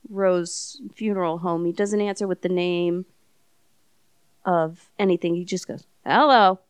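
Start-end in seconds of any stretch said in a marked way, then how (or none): 6.0-6.6 country drawl. Retold or imitated. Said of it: "in a country voice".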